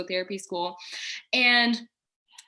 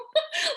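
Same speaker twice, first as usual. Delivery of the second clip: joyful laugh. Real, not acted. Overjoyed at news.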